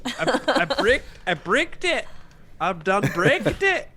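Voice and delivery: put-on Cockney; Cockney accent. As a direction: have a go at a mock Cockney accent.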